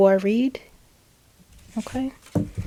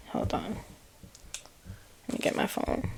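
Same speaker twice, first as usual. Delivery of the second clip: ordinary talk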